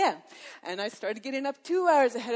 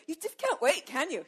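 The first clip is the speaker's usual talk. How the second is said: playful teasing; 5 semitones higher than usual. Real, not acted. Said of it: "You are so head over heels".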